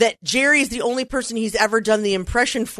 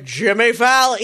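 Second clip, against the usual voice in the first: announcer impression; 2 semitones higher, 4 dB louder, slower than usual. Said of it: "the Saturday Night Live announcer".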